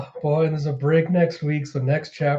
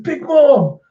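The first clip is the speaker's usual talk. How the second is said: high, loud henchman wail; alarmed cry; 10 semitones higher, 6 dB louder than usual. Retold or imitated. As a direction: cry out for the boss in mock panic. Goons cry out for boss.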